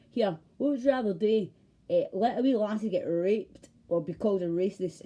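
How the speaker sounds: shouted dare at the police; mocking taunt. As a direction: needle them with a loud jeering question. Taunting police while chasing them.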